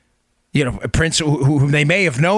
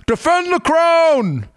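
"Defend the crown" much higher and slow in a hammed-up posh English accent; mock authoritative English accent; 12 semitones higher, slower than usual. Shown as a demonstration. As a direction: proclaim "Defend the crown" like a pompous English royal, in a bad English accent. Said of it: "authoritative, you know, horrible English accent".

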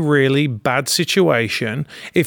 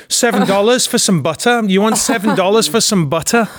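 raised, questioning disbelief; incredulous retort; 4 semitones higher than usual. Retold or imitated. Incredulous retort to economy claim.

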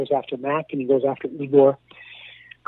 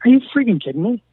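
retold disbelief; 9 semitones higher, 4 dB louder than usual.

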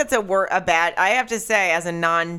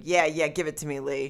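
lightly voiced Hitler, softer at the end; imagined Hitler; 4 dB quieter than usual. Imagining Hitler egging on Lee, understated impression. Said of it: "He was a little short man".

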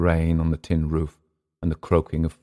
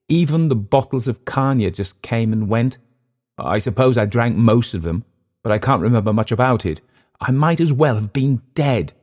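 higher-pitched, earnest recollection; brooding Englishman; 5 semitones higher, 4 dB louder than usual. Acted. Clift recalling the rains to Emile, brooding. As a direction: recount the decline, building louder to the end. Clift's long confession in story.

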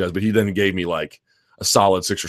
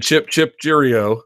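mock British cheerio; 7 semitones higher, much slower than usual. Joking about what Jones should have said, in hammed-up British. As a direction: toss off a hammed-up British goodbye.

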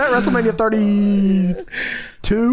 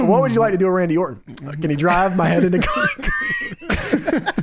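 mock Cactus. Cactus asked what he wants.

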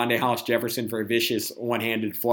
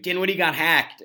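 higher-pitched mock scream; retold scream; 5 semitones higher than usual. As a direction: imitate a fan's outburst, only half yelled. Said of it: "flipped over a table and screamed".

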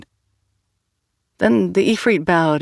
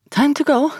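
called out, higher and bright; 11 semitones higher than usual. A narrator's reading. Asante calls the team to leave, raised voice. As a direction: call everyone to leave. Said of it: "called Asante".

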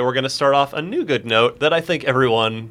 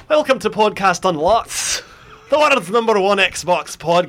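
laughing intro; 6 semitones higher, 3 dB louder than usual. Acted. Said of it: "as you previously heard in Gaelic".

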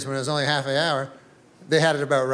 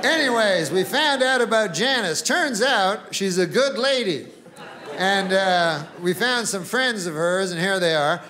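raised, earnest reporter voice; mock-serious field report; reporter Bill. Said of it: "And Bill's like".

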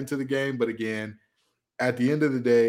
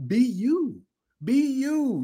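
mock high voice; 12 semitones higher, much slower than usual. Mocking higher voice, be you.

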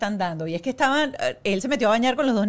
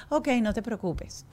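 much softer, lightly voiced meek reply; good-girl little voice; 7 dB quieter, slower than usual. Old accommodating self answers husband, soft little voice. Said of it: "con esa vocecita".

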